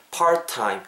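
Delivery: "part-time" with a single t; merged t. Shown as a demonstration. Teacher drilling the word, one t in "part-time". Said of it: "한 개 날아 뿅 날아가고".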